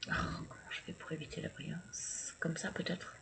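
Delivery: whispered to herself; soft whispered self-talk; whispered aside. Real, not acted. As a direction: whisper it while fiddling with the camera. Muttering to herself about glare.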